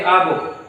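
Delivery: "आ book" with the article as an open ah. Shown as a demonstration. Teacher showing the spoken article, "आ book" with ah. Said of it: "और कहेंगे".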